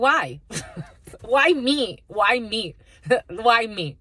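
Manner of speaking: high, laughing why-me whine; laughing mock plea. The psychic laughing at Spirit's answer, high mock whine.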